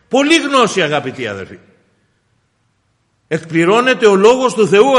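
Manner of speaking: fervent pulpit delivery; impassioned preaching. Acted. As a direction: preach it out, punching phrases and dropping on the address. Preaches at raised force.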